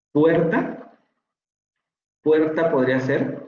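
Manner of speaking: puerta with a Spanish tapped R. Shown as a demonstration. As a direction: tap the R in puerta clearly. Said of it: "ahí sí tenemos una vibrante". (puerta con vibrante simple)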